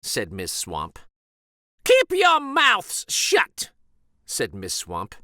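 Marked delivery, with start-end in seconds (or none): 1.8-3.7 slow, high, loud harsh order; mean teacher silencing the kids, slow and harsh; harsh witch teacher. A narrator's reading. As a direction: bark the order at the class. Miss Swamp orders silence.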